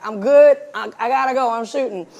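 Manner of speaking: loud first words, then dropping away; busy on set. Retold or imitated. Director taking a call while shooting, busy brush-off. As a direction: imitate brushing off a caller mid-shoot. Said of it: "that's how I sound when someone calls me and I'm shooting".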